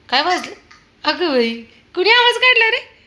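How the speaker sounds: a sudden high cry of surprise; surprised. Real, not acted. Mother startled when the dog makes a noise, high surprised call.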